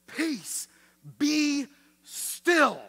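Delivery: high, loud command to the storm; Jesus commanding the storm, loud and high; commanding call. Acted. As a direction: order the sea to calm.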